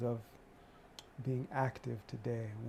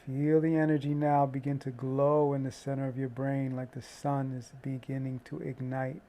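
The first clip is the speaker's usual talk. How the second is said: guided meditation. Acted.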